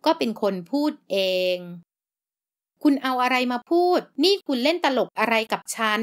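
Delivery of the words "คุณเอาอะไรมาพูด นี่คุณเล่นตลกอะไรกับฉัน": angry retort. Acted. Heroine confronts the doctor.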